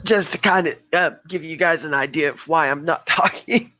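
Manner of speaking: straining to talk through a lost voice; strained sick voice, pushing words out; voice nearly out. Real, not acted. Host showing listeners why she's not talking, voice out. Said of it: "This is what I sound like".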